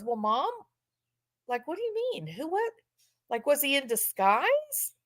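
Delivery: soft, puzzled son imitation; hushed mock confusion; clueless son. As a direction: play him mildly baffled and hesitant. Acts out clueless son on phone.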